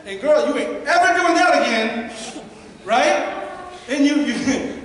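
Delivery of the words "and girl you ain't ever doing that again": mildly hammed-up indignant venting; mock-heated telling-off, building to a sassy finish; exaggerated arguing rant. Speaker imitating someone venting alone in the car after an argument, mock indignant. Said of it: "maybe you don't talk like that".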